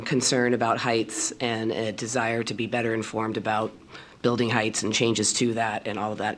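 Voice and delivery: hoarse from a cold; rough sick voice, pushing through. Real, not acted. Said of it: "I sound creepy to myself".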